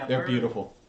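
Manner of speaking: ordinary talk, nothing marked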